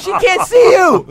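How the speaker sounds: very high, loud, slow squeal; imitation of someone gasping out words while cracking up; imitating helpless laughter. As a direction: drag the words out through mock hysterics. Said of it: "he's laughing so hard".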